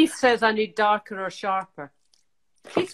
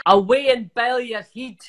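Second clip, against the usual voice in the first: 1 Scottish accent; 3 dB louder than usual. Shown as a demonstration. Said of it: "give me a Scottish thing to say".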